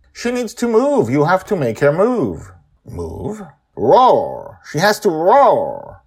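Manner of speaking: put-on high, loud pleading little girl; demanding child. A narrator's reading. Joy demanding the dragon move and roar, insistent child. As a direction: push hard for what you want.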